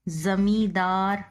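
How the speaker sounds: ज़मींदार with a firm, pressed ze at the start; stressed ze. Shown as a demonstration. Teacher shows the emphasised ze in ज़मींदार. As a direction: lean on the z of ज़मींदार. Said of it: "जोर दे के बोला जाता है".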